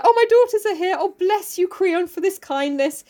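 high-pitched gushing thanks, easing down; hammed-up high-pitched gratitude; grateful Oedipus. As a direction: gush like an overwrought father. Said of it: "he's like".

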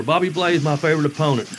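a hint of Chris calling out a friendly hello; mock Chris greeting. Chris greets his old opponent backstage, mock friendly call.

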